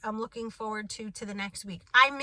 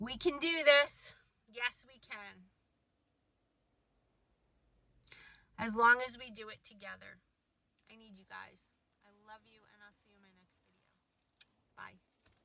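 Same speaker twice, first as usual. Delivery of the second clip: teary, on the verge of crying; 5 dB quieter than usual. Signing off a video to viewers, speaking while about to cry. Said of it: "this is going to make me cry".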